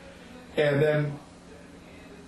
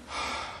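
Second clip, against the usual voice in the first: quiet, weary sigh; disgusted sigh; 11 dB quieter than usual. Retold or imitated. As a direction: breathe out softly in mild disgust. Voicing the disgusted inner rebuke.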